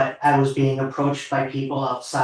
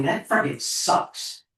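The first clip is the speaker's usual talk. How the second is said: choked-up emotion; 2 semitones higher, slower than usual. Real, not acted. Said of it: "I'm getting kind of emotional".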